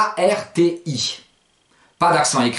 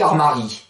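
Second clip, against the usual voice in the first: armari stressed on the last syllable; end-stress it: armaRI; accent ignoré. Shown as a demonstration. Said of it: "Si vous tenez pas compte de l'accent". (« armari » accentué sur RI)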